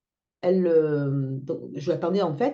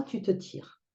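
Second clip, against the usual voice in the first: whispered threat; menace chuchotée; 3 semitones higher, 6 dB quieter, slower than usual. Retold or imitated. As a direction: hiss the threat under your breath. (menace soufflée à voix basse)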